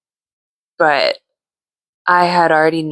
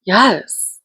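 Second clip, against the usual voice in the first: gleeful yes; 3 semitones higher than usual. Retold or imitated. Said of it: "I was just like".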